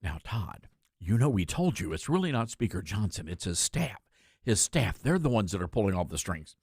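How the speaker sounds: low, hushed put-on phone-caller voice; imitated insider caller. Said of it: "I'll get a call after this show".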